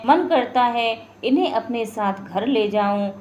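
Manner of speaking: steady storyteller's reading voice; story narration. A narrator's reading. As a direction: tell the tale evenly to listeners. Narrates a devotional folk tale. (कहानी सुनाने का अंदाज़)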